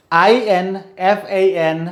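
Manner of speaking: letters spelled slowly, one by one; slow spelling out. Shown as a demonstration. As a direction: dictate each letter slowly for the class. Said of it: "मैं सिर्फ spellings पढ़ूंगा".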